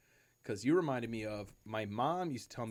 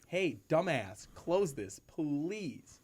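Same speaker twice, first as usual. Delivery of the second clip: slow, higher-pitched mock plea; exasperated mock scolding; 4 semitones higher, much slower than usual. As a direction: drag it out as if to someone dense. Mock-scolding whoever left bag open.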